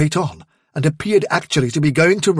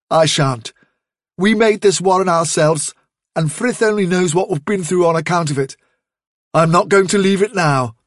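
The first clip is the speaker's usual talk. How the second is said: firm defiance; 4 semitones higher than usual. Acted. Leader refusing to abandon warren.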